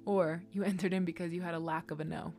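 hushed whisper with a laugh. Acted. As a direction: whisper it playfully. Whispered aside to splenic people.

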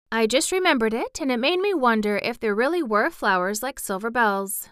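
put-on wondering girl. Mary explaining her question about flowers, wondering.

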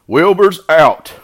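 envious animals spreading the news; envious cry. A narrator's reading. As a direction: call it out slowly and high. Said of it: "they said in envy".

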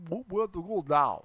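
practised Russian-accented phrase; mock Russian accent. Shown as a demonstration. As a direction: try it out in put-on Russian.

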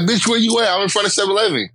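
high-pitched imitation of a girlfriend; agitated homegirl. Homegirl on FaceTime hunting for her friend, agitated high voice.

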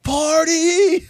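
high, loud, whooping "Party!"; mock party cheer. Mocking carefree partiers with a whoop. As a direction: throw it up like a carefree reveller.

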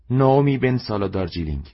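lightly voiced young woman. A narrator's reading. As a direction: announce ناومی بن سالا دارجیلینگ brightly. Customer proudly gives her name.

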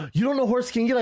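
high-pitched scandalized question; mock shock. Rider taunting the couple about horses, mock shocked. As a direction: feign utter astonishment at their ignorance.

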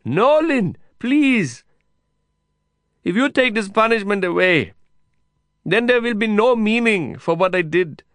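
high, loud begging. A narrator's reading. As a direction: beg him over the noise. Heated exchange through prison wire.

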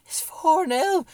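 high, loud, slow cracking shout; voice cracking with excitement. Retold or imitated. Fan telling his wife the score, cracking excited shout. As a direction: near tears with joy, voice breaking. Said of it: "I didn't know what to do".

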